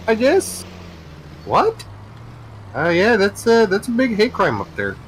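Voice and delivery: American cop and suspect puzzled about extradition; mock dialogue with Canadian. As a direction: act both sides, deadpan Canadian.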